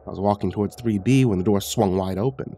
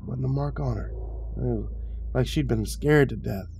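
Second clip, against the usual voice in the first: higher, gossipy character voice, rising and dropping; chatty old retiree; 5 semitones higher than usual. A narrator's reading. Retiree tells visitor of the old woman, chatty. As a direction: recount the tragedy like a rambling neighbour.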